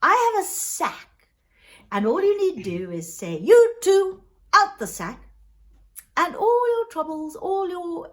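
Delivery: swooping, cheery explanation; jovial Mister Frost. Acted. Mister Frost offering the poor man a sack, jovial. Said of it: "jovial, actually".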